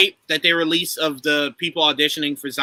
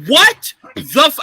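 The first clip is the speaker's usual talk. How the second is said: high-pitched mock scream of disbelief; retold scream; 7 semitones higher than usual. Viewer retelling his scream when the episode ended, high disbelief. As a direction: act out an outraged yelp, pitched way up. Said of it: "I just screamed".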